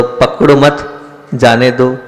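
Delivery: पकड़ो मत as one phrase, brief break, जाने दो; pause after मत. Shown as a demonstration. Teacher urging those who would rise, पकड़ो मत then pause. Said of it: "एक मैं कहीं पर जोर दे रहा हूँ".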